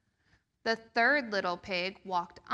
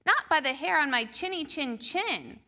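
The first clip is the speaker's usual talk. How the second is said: little pig crying; 5 semitones higher than usual. Acted. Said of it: "cried the first little pig".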